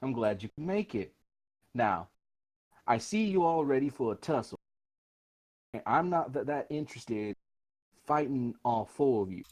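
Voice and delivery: lightly voiced, unhurried character taunt; swaggering adventurer. Player as adventurer greeting armed bandits, easygoing swagger.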